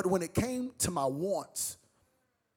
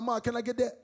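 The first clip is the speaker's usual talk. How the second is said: put-on eager kid pleading; 3 semitones higher, faster than usual. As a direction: beg like a kid who can't wait. Kid begging mom.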